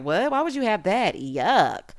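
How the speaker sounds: mock disgusted reaction; mildly grossed-out mimicry; imitated disgust. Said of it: "he was really looking disgusted".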